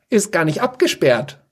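a hint of a nonchalant sidekick; casual shrug. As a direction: toss it off with a shrug. Dinomant shrugs, casual remark.

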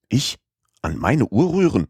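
high, outraged disbelief; as if asked to harm a family heirloom; indignant cry. Acted. Passepartout, told to reset his watch, cries out, indignant. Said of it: "rief Passepartout".

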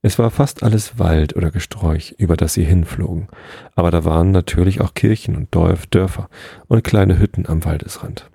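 measured, even storybook reading; story narration. A narrator's reading. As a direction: read a children's tale aloud, unhurried.

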